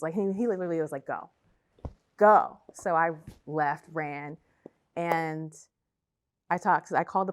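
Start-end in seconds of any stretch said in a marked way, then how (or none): 1.1-2.6 retold shouted command, high and loud; mock yell of go; urgent yell. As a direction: bark it like he's pushing her out. Boyfriend forcing her to leave.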